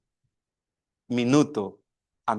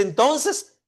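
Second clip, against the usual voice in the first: put-on higher, anxious child's question; worried child; 4 semitones higher than usual. Young son asking his father, a little worried. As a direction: let a boy's worry creep into the question. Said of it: "el niño ya un poco preocupado".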